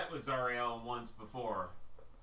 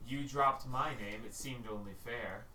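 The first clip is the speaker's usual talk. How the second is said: unearthly voice. Acted. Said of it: "And you hear".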